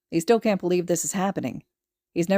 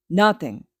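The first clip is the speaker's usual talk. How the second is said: retort; 5 dB louder than usual. Acted. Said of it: "Kacchan retorts".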